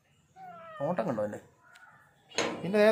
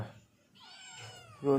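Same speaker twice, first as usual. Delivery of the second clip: very high, very slow sing-song aiyo; long high pitying coo; drawn-out high coo; 7 dB quieter, much slower than usual. Real, not acted. Cooing over crying pets.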